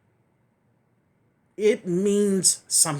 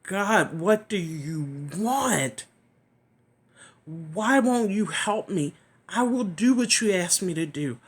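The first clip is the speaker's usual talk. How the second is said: retold cry to God; 3 semitones higher, 4 dB louder than usual. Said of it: "my screaming out loud, crying out".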